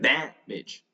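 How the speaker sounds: "Damage" as DAM-idge with an open "æ"; demonstrated short A. Shown as a demonstration. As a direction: open wide on the first A of "Damage", light ending. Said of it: "that's the way you pronounce it".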